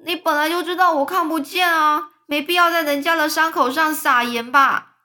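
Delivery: angry. Acted. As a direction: snap back, deeply offended. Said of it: "蚯蚓就很生气说". (生气地高声反驳)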